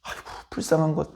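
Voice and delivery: mild hammed-up compassion; tender pity. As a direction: comfort her like a grandparent. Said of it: "하면서 도와주셨을 텐데".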